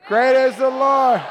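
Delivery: loud, high rallying shout; touchdown yell. Shown as a demonstration. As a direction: yell it like your team just scored. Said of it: "how loud you would yell during that".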